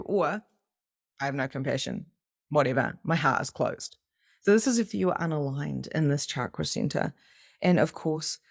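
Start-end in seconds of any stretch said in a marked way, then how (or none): 1.2-4.0 cold dismissive. Pretend. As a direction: play someone who has shut their heart. Mocking closed-hearted person.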